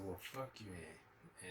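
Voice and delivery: drawn-out, slow mock sneer; a slow, scornful kiss-off to a woman who turned him down. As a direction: drag out the brush-off scornfully. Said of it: "And I said".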